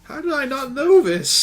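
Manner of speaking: loud, high-pitched disbelief; mock astonishment. Game master reacting to news that things are phones, mock astonished. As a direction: play up the shock, pitch way up.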